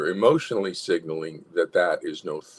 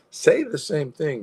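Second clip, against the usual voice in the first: higher, slow, smiling instruction; happy assertion; 8 semitones higher than usual. Shown as a demonstration. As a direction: say it with a smile. Demonstrates happy added to assertion.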